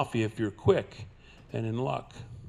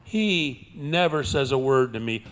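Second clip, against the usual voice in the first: ordinary talk, nothing marked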